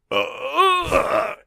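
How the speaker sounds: high, drawn-out groan; imitated cry of being jabbed; hammed-up high-pitched "ugh"; mock pained groan. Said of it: "and he's like".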